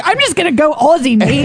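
imitating a put-on Aussie accent; playful Aussie impression; Australian accent. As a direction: slip into a mock Australian twang. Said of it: "he started Australian instead".

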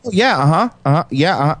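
eager little listening noises, mock-interested; put-on fascination; feigned keen interest. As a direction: act really interested, nodding along aloud. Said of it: "seem really interested".

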